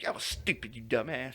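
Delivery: understated mock scolding. Repeats mom's scolding more softly.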